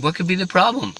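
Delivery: high, loud incredulous question; puzzled Lord. Acted. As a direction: ask in grand surprise from on high. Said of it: "The Lord said".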